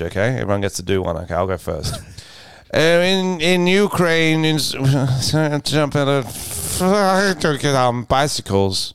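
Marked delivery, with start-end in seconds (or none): 2.7-8.9 Biden impression. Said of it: "do a Biden speech".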